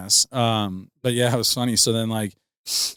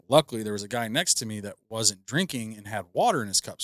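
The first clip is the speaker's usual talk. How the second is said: normal talking voice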